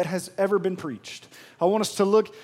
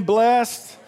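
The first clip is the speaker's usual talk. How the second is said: louder call; 3 semitones higher, 4 dB louder than usual. Real, not acted. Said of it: "Say it again".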